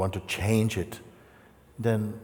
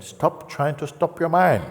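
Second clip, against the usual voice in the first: higher, slow and loud emphatic line; emphatic instruction; 7 semitones higher, 4 dB louder than usual. Shown as a demonstration. Teacher correcting the frustrated seeker, slow emphasis. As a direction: drive the point home slowly. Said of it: "I'm saying".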